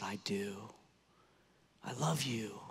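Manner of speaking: a soft, breathy whisper of love; whispered confession. Acted. Peter answers Jesus, deeply moved.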